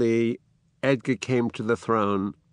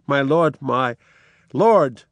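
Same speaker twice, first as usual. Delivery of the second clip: a mild cry, louder at the end; 4 dB louder, slower than usual. Acted. Edgar calling to the dying Lear, mild cry. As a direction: call out to the dying king. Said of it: "cries out".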